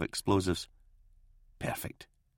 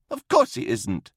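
high, indignant snap; snapping. A narrator's reading. Old priest cutting in on commissar, snapped. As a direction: cut in sharply, pitched right up. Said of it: "snapped Zwiel".

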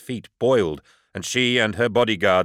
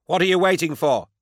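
high, urgent yell; 10 semitones higher than usual. A narrator's reading. Lyco yelling at the demon to act, high shout. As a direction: shout the order across the site. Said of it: "a voice yelled".

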